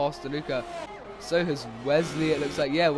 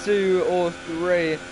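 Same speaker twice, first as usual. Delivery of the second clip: excited; 5 semitones higher, 5 dB louder, slower than usual. Real, not acted. Car crashes out live.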